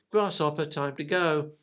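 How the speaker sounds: owner calling. Retold or imitated. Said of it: "I think I heard him says".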